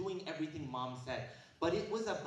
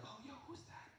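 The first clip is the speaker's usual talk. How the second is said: 1 mock kid; 7 semitones higher, 15 dB quieter than usual. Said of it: "And you're like".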